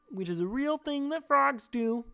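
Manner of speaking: a sleepy frog explaining himself. Pretend. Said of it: "I get stuck in the voice".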